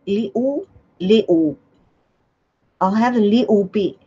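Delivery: put-on British "little"; British accent. Shown as a demonstration. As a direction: say "little" like a Pommy, swallowing the middle. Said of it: "I always, I say".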